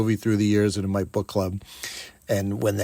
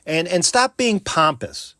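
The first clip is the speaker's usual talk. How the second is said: mock scolding; 6 semitones higher than usual. Shown as a demonstration. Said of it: "Just say".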